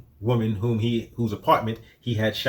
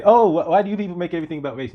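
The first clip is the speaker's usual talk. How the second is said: fast mocking quote, pitched up; mocking imitation; 5 semitones higher, faster than usual. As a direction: mimic them quickly with a bit of a sneer.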